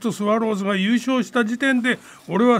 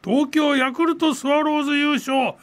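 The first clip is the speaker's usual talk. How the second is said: slow ceremonial announcement; 5 semitones higher, slower than usual. Acted. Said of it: "もう一度やっていただけますか".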